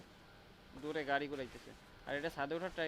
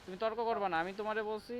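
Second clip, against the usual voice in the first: stern, angry order; 3 semitones higher than usual. Real, not acted. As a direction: shut the argument down firmly. Scolding a teammate.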